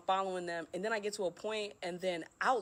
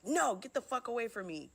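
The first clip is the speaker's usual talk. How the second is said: higher-pitched, imitated snap; retold snapping; 6 semitones higher than usual. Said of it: "I, like, snap at them".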